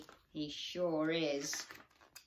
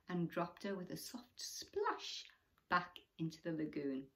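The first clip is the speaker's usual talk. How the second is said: storybook reading. A narrator's reading. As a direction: wind the story down gently. Reading picture book aloud.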